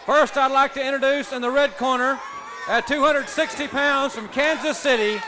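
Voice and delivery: booming ring announcer introduction, stretching the names. Acted. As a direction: announce the fighters to the arena.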